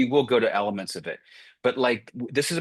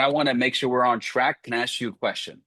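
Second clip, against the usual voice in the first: fast, no hesitation. Shown as a demonstration. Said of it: "See how fast it is?".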